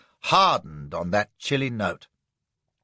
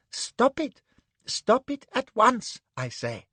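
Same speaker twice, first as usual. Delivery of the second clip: much higher outraged cry; indignant stop; 10 semitones higher than usual. Acted. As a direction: order her to stop. Anne shouts.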